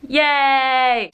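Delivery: high, bright little cheer; excited cheer. Real, not acted. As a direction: celebrate the win. Cheering after finishing dresser.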